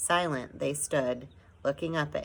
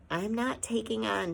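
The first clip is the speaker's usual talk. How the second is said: gasped; 7 semitones higher than usual. A narrator's reading. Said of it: "she gasped".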